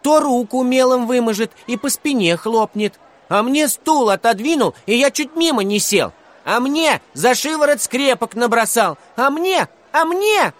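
very high, loud squeal of complaints; clamouring children. A narrator's reading. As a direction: shout over each other to be heard. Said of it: "кричали, перебивая друг друга".

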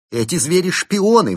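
high, loud accusing cry; shouting. Acted. Chimp monk shouting at the strangers who burst in, high and loud. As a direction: shriek the accusation at the intruders. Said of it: "выкрикнул брат Бенедикт".

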